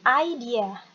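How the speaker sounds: "idea" said as eye-DEE-uh, clearly; pronunciation demo. Shown as a demonstration. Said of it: "Jadi ini bacanya adalah". (contoh pelafalan "idea": ai-di-a)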